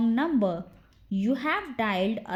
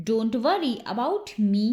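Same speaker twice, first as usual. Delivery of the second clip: slowed-down teaching repeat; unhurried language-drill model. Shown as a demonstration.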